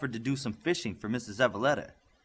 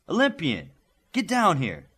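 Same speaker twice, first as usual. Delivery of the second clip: louder, higher stern call; coach calling out; 6 semitones higher, 5 dB louder than usual. A narrator's reading. The coach Inferno calls Olympian down to him, stern. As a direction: summon him sharply.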